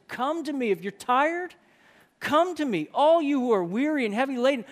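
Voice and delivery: high, loud, calling out; open invitation. Acted. Jesus calling all who are weary, high loud invitation. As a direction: call the weary in, voice lifted high. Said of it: "There's invitation".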